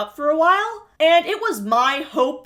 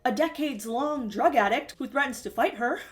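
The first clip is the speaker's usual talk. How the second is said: sneering mock voice, higher and softer; mocking imitation; 3 semitones higher, 5 dB quieter than usual. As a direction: mimic her in a snide singsong. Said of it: "and then be like".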